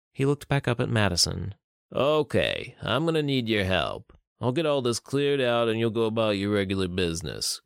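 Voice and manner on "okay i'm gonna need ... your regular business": a hint of a businesslike fixer; lightly voiced older criminal. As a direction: lay out orders as a seasoned tough guy. Older man instructs Madison.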